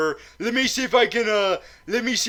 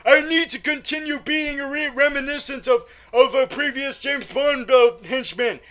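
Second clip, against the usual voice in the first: raised, louder henchman voice; Drax; 7 semitones higher, 5 dB louder than usual. Retold or imitated. Henchman interrupting the pair on the train, hammed-up declaiming. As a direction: declaim it high and forceful, hammed up. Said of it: "And Drax is like".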